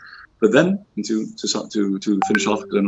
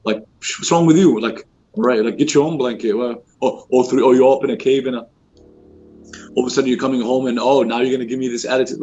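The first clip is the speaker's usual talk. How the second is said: mock dismissive wife; 2 semitones higher than usual. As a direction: brush off the scared husband with an eye-roll tone. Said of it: "And Khadija could have been like".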